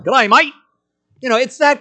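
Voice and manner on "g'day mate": Australian greeting. Retold or imitated.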